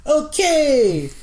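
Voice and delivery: high, loud old-time British accent, mocking Churchill; a grumpy old Brit brushing off his wife. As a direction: put on a hammed-up British accent. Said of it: "That's my British accent".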